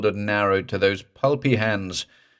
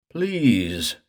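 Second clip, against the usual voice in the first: thick plea; 4 semitones higher than usual. Acted. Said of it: "Morse said thickly".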